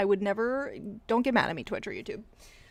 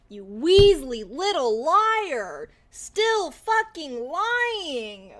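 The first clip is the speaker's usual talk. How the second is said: slow scorn; 3 semitones higher, 4 dB louder, much slower than usual. Real, not acted. Scorning a liar.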